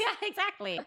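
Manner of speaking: breaking into a laugh; yeah, exactly through a real laugh; giggling agreement. Real, not acted. Laughs at the joke.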